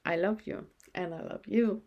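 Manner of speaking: a soft, inward loving murmur; silently thinking it. Shown as a demonstration. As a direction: say it softly as if only thinking it. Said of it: "And you just think it".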